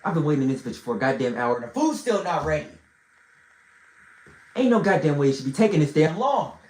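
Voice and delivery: low, fast angry grumble; low angry threat. Retold or imitated. King warning the hosts to bring the food, low and angry. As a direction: growl it low and quick, out of patience. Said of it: "And I said".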